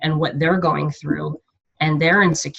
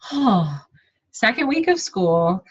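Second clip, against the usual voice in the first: retold overwhelmed excuse; 4 semitones higher than usual. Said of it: "I was like".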